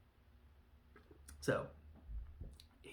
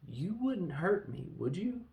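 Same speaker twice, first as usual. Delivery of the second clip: Zira pleading with a hurt captive; pleading and scared; 9 semitones higher than usual. Retold or imitated. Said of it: "she is terrified".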